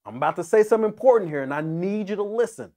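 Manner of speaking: fast, loud and urgent; urgent emphasis. Acted. God urging his people to listen, fast and insistent. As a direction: grab their attention, rushing. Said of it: "He says it twice as to emphasize".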